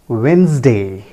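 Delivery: Wednesday as WENZ-day; correct pronunciation. Shown as a demonstration. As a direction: silent first D in Wednesday. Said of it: "The correct pronunciation is". (Wednesday का सही उच्चारण, वेन्ज़-डे)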